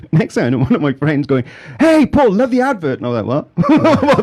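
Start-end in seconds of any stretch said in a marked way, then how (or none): 1.8-3.0 high, loud friendly call; excited greeting. Retold or imitated. Friend greeting him about advert. 3.3-4.2 high, loud startled what; surprised. Retold or imitated. Hearing about the advert.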